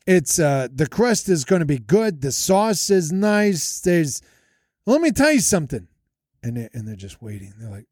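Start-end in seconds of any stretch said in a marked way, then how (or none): 0.0-5.9 mock Italian-Jersey wise guy; Jersey accent. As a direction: draw out a put-on Jersey accent. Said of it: "it's more of a Jersey accent".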